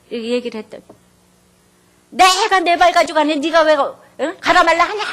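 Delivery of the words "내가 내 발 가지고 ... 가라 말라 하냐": husband yelling loud and high; angry shout. Retold or imitated. Rude husband shouting at the bank clerk, angry. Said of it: "이렇게 소리를 지르".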